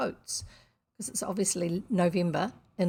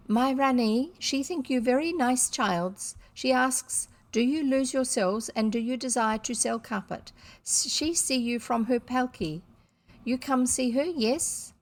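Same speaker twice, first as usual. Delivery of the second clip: put-on terrible Indian accent; 4 semitones higher than usual. Turbaned interpreter invites the children to the Rani, in a bad Indian accent. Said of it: "the four sentences I've already said with a terrible accent".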